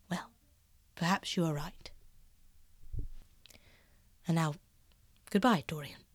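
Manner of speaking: lightly voiced painter, half-hushed and earnest. Basil confessing to Dorian, hushed and earnest.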